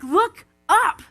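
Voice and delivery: excited. Retold or imitated. Pointing child to rainbow.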